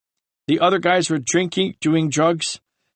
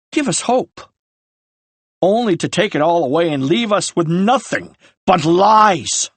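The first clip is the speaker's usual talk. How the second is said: anguished rage. Acted. Ryan confronts brother over lies.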